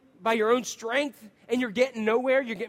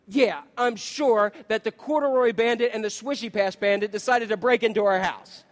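sarcastic tired humor. Retold or imitated. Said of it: "in my stupid humor".

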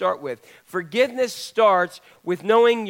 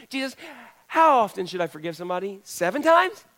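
kissing up. Retold or imitated. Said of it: "He's kissing up to Jesus".

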